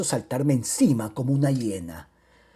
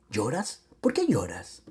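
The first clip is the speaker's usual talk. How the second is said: hushed questioning; 3 semitones lower, 6 dB quieter than usual. Acted. Speaks to weeping Romilda.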